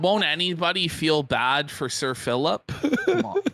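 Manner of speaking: laughing mock pity. Real, not acted. Cohost teasing Phil to the audience, laughing mock pity. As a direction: laugh through a fake appeal for pity.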